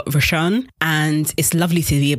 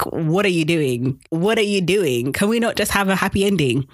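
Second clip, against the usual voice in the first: exasperated; 3 semitones higher than usual. Real, not acted. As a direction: plead in mild frustration. Pleading with a character in frustration.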